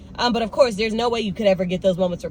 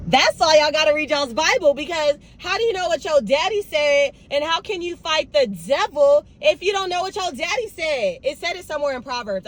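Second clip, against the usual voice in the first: emphatic preaching; 5 semitones higher than usual. Real, not acted. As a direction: preach it with fire.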